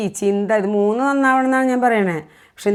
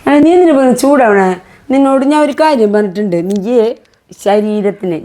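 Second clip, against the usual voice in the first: stern scolding; 7 dB louder than usual. Real, not acted. Mother rebuking son for getting heated, stern scolding.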